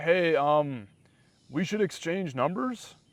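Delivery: put-on tentative, self-doubting, hesitant tone. Recalling asking a girl for her number, reenacting a hesitant ask. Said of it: "I didn't sound like I just assumed".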